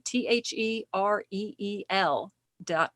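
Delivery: letter by letter, slowly spelling T H E R E E L; spelled out. Shown as a demonstration. Host spelling the web address, slowly letter by letter. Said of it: "So real, like movie reel".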